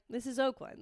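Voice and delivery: calm, quiet and resigned; very calmly. Retold or imitated. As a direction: say it softly, as if nothing could surprise you. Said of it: "And I was very calmly like".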